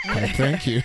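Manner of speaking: flattered thank you. Retold or imitated. Himself answering Corinne's compliment, mock-posh and flattered. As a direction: play it flattered and proper. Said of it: "I was like".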